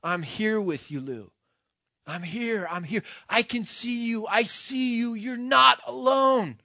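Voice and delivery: rising to a high, loud cry of reassurance; retold desperate scream. Friend screaming to the condemned man, loud and pleading. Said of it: "he's screaming the whole time".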